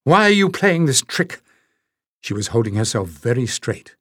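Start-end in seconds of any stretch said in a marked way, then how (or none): 0.0-1.4 high, scornful demand; contempt. A narrator's reading. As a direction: sneer the question at him. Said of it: "Her voice was filled with contempt".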